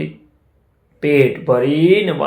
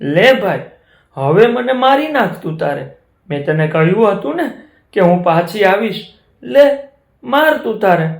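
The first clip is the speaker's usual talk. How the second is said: higher, resigned offer; brave cow; 6 semitones higher than usual. Acted. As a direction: offer herself calmly to the tiger. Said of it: "ગાય પાસે આવીને કે".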